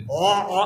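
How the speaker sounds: low throaty gargle; gargling noise. Shown as a demonstration. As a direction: imitate gargling a sore throat. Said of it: "আমরা gargle করি না". (গার্গল করার শব্দের নকল)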